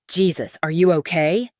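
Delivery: startled, loud worried question; alarmed. Acted. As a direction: call out in shock. Finding bleeding man in car.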